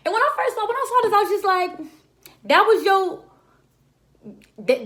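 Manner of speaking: high, loud disbelieving rant; incredulous. Retold or imitated. Recapping a TV scene, mocking a character's plan in a high incredulous voice. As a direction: scoff at how dumb the plan is.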